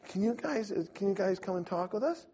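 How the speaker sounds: high, put-on pleading question; innocent invitation. Feigned innocent invitation to missionaries.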